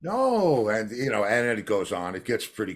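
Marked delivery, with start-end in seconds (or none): 0.0-0.7 slow, much higher drawn-out no's; lightly voiced indignant guitarist; mock protest. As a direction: ham up a protesting Godfrey. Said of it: "And he said".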